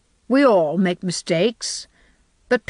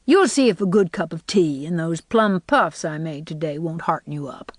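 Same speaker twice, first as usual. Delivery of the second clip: briskly. Acted. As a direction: brush it off briskly and move on. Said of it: "she said briskly".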